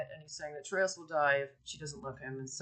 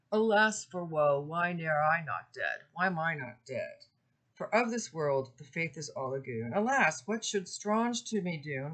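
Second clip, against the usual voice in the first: louder lamenting verse reading, mildly dramatic; poem reading; 4 dB louder than usual. Acted. Lecturer reading Criseyde's lament, mildly distressed. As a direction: read her lament with a touch of distress.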